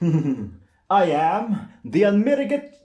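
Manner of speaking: high, loud superhero declaration; broken-off first try at the hero line; Great Saiyaman. Acted. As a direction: heroic anime hero voice, slow and proud. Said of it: "the Saiyaman".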